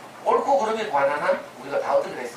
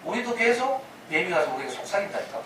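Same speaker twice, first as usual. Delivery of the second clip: normal talking voice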